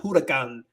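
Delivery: huracán with an audible English H; wrongly sounded H. Shown as a demonstration. Teacher shows what it's not, huracán with sounded H. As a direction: start huracán on a breathed H sound. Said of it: "you don't pronounce the H".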